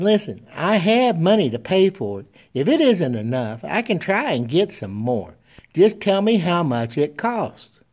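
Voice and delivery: a hint of a small child asking shyly; storyteller voicing an anxious little girl. A narrator's reading. Little girl insists she can pay.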